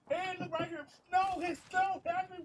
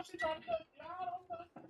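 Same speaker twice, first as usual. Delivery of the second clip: squealing protest; 5 dB quieter than usual. Acted. Pet avoiding girl's dirty hands.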